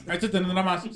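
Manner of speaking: talking while chewing; mouth full. Real, not acted. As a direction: speak through a mouthful of food. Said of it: "Perdón, estoy comiendo".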